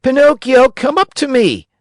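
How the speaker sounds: high, loud calling shout. A narrator's reading. Harlequin shouting to Pinocchio across the theater. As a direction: call him up loudly. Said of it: "shouted Harlequin".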